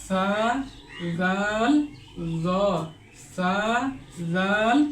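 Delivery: সা জাল জ said softly with the tongue on the teeth tips; gentle modelled letters; soft letter demo. Shown as a demonstration. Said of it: "একটু নরম করে উচ্চারণ করতে হয়". (নরম করে উচ্চারণ)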